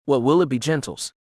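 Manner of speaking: a lightly voiced soothing droid; gentle, lilting service-droid lilt; musical soothing droid voice. A narrator's reading. Bartender droid greeting customers, lightly musical and soothing. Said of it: "it asked in a musical, soothing voice".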